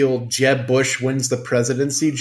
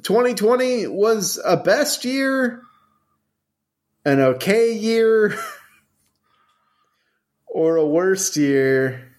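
drawn-out announcer; 7 semitones higher than usual. Acted. Announcing final judgment dramatically.

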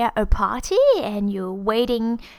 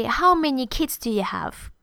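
put-on "How many kids do you have" falling toward "have"; falling question. Shown as a demonstration. Teacher giving an open question example, falling intonation. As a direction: ask with no lift at the end. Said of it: "the intonation will fall".

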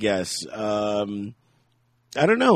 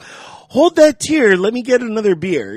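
mock callous interruption; 7 semitones higher, 5 dB louder than usual. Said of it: "You can't be like".

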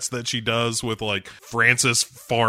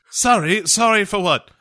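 incredulous Bond; 7 semitones higher than usual. Pretend. Bond demanding M explain herself, mock outrage.

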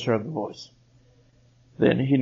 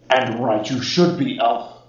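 grand proclamation; 8 dB louder than usual. Acted. Ancient spirit proclaims itself.

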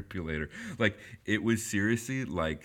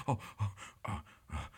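dazed surprise; 6 dB quieter, much faster than usual. Retold or imitated. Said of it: "comes to himself".

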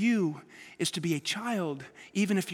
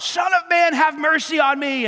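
retold cry for mercy; 7 semitones higher, 7 dB louder than usual. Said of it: "he screams out".

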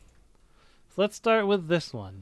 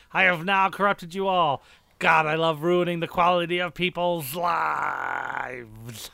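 a touch of gloating villain, slow; gleefully evil, lightly voiced; wild unhinged ranting. Gloating villain after evil laugh.

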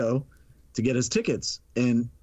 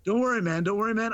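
higher-pitched, hurried-to-soothe friend; retold reassurance; 8 semitones higher, faster than usual. Filmmaker caught by police to ticket seller, reassuring. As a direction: reassure a worried pal in a raised voice.

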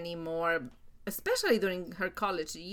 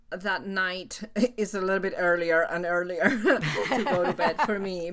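laughing; 3 dB louder than usual. Real, not acted. Laughing while talking about bedtime.

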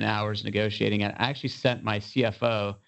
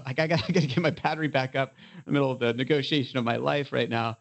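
ordinary delivery

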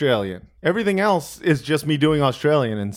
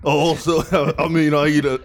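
mock Tyson. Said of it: "Mike Tyson?".

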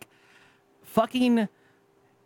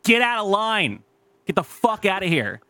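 slow, higher mock threat; retold angry order, raised and slow; angry telling-off; 5 semitones higher, slower than usual. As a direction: bark him out of the line. Retelling confronting rude man.

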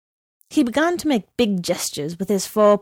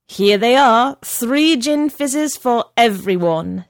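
proud serving; 3 semitones higher, 4 dB louder, slower than usual. A narrator's reading. Barman serves drinks proudly.

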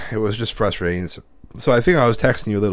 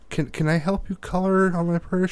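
put-on eager little boy; 8 semitones higher than usual. Boy asks girl sweetly.

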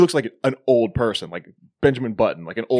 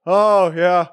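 mock gullible agreement; 5 semitones higher, slower than usual. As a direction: go along with it like a dupe. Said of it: "No, they're like".

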